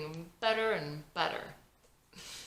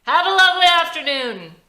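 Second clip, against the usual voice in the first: hiding pain; 11 semitones higher, 16 dB louder than usual. Acted. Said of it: "tries to hide the fact".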